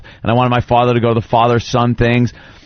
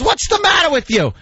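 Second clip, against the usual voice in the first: mock annoyed father. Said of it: "And he goes".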